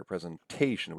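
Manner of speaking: Presentation as pre-zen-TAY-shun; stress on third syllable. Shown as a demonstration. Lecturer repeats natural stress, Presentation as pre-zen-TAY-shun. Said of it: "the stressed syllable is here".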